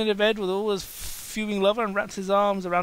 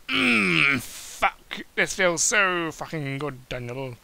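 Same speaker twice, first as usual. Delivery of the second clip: mock moaning; much slower than usual. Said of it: "he moaned".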